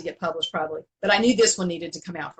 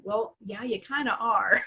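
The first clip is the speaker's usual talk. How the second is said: said gently; 2 semitones higher than usual. Retold or imitated. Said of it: "And I very gently said".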